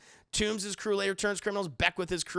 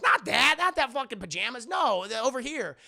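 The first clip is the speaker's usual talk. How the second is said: higher, louder irritated correction; mock exasperation; 6 semitones higher, 7 dB louder than usual. Imitating Happy correcting Peter about the suit, exasperated. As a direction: imitate a fed-up minder.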